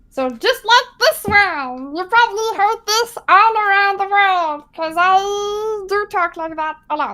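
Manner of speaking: goofy goblin voice, drawn-out I. A streamer showing the silly voice chat makes them do, silly goblin voice. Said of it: "no one understands me when I talk this way. There are some goblin interpreters".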